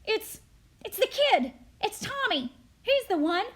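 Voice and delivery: high, loud, urgent blurting; frantic accusation. Acted. Charlie naming Tommy before the crowd, high and frantic. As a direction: blurt out a name to save yourself.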